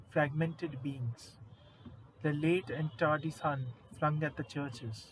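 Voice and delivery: measured recital, pausing between images; deliberate verse reading, each line falling to rest; solemn poem reading. Acted. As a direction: recite the poem phrase by phrase with weight. Reads a second poem aloud.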